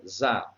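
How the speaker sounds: "za" isolated from risada; stressed syllable alone. Shown as a demonstration. Teacher picking out the tonic syllable, said by itself. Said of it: "a sílaba tônica".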